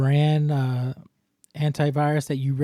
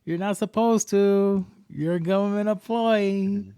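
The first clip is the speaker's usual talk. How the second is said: mock scolding; 5 semitones higher than usual. Mock scolding a cussing scammer.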